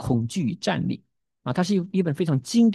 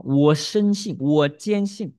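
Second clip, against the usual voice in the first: louder, insistent declaration of belief; firm conviction; 4 dB louder, much slower than usual. Acted. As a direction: stamp each 信 with certainty. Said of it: "这是他信心的宣告". (坚定有力地宣告“我深信，我坚信”)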